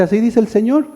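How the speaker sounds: self-styled prophet. Acted. Self-styled prophet brings word to the people, lightly mimicked proclamation. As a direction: announce it with a touch of the oracle. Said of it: "Viene entonces aquel y te dice".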